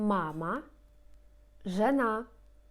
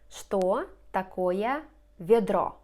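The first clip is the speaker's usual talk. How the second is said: slow model question; 4 dB louder, slower than usual. Shown as a demonstration. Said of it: "slow model question".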